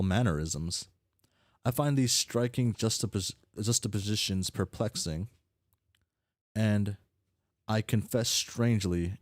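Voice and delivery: lightly voiced pompous aristocrat; haughty formal character.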